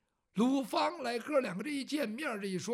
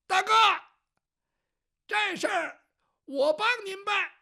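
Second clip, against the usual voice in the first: higher, louder call from outside; calling from the yard; 10 semitones higher, 9 dB louder than usual. Acted. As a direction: call in from the courtyard to big brother. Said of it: "就听院子里边有人说话了".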